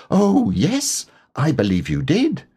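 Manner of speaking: high little piglet, bashful. Acted. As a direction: squeak it out shyly like a tiny pig. Piglet, shy and pleased.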